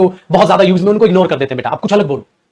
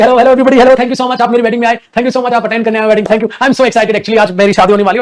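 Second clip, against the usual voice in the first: hammed-up bride gushing to the guests, a touch higher; mock chatty bride; 5 semitones higher than usual. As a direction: play a bride who can't stop thanking everyone. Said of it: "तो दुल्हन को बोला जाता है ना नीचे नजर रखना". (शरमाने की जगह मेहमानों से चहकती नकली दुल्हन)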